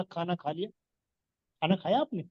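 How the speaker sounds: soft, gentle asking; tender, softened question; affectionate. Shown as a demonstration. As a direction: ask lovingly and softly, low-key. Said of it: "प्यार से बोला".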